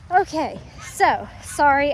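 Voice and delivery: breathless, slow start; catching your breath. Real, not acted. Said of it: "I'm out of breath".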